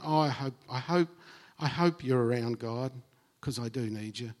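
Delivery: lightly acted hesitant plea, trailing away softly; mock uncertain. Acting out a doubter praying to God, mildly uncertain.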